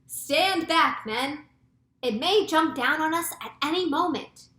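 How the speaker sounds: alarmed commanding yell; yelled warning. A narrator's reading. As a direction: warn your men back loudly. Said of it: "yelled the chief of police".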